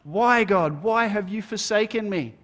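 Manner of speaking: a restrained retold yell, not full force; mild mock yell. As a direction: lift it up as a pleading outcry. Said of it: "He's the one yelling out".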